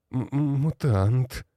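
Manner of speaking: terrified wheeze, stammering the first sound; hoarse stammer. A narrator's reading. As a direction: choke the word out in fear. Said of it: "прохрипел тот". (хриплый испуганный заикающийся голос)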